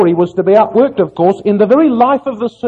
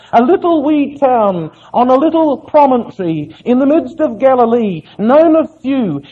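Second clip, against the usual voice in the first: higher-pitched, rising sermon delivery; impassioned preaching; 6 semitones higher, 4 dB louder than usual. Real, not acted. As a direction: preach it with mounting fervour. Preacher building up his point.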